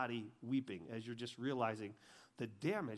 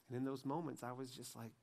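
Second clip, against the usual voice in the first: ordinary talk, nothing marked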